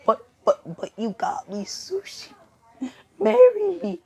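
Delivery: high, squeaky tearful pleading; mock crying. Sensei begging Izuku over sushi, mock-tearful. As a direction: beg with put-on sobs, ending very high. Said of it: "I start to cry and say".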